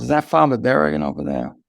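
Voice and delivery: put-on old-school judge's thick New York accent. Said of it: "with the old thick New York accent".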